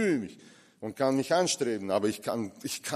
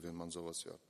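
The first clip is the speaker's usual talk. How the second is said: ordinary talk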